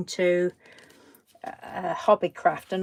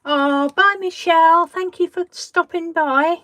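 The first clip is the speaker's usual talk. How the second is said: calling out; 9 semitones higher, 10 dB louder than usual. Real, not acted. Calling farewell to a viewer.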